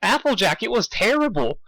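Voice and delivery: high shaky cow voice, mock Canadian; bad Canadian cow voice; attempted Canadian accent. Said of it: "Canadian accent like they do".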